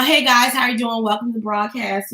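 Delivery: listless, monotone livestream welcome; mock a tired host going through the motions; half-dead greeting. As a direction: welcome viewers with no excitement. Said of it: "you look half dead".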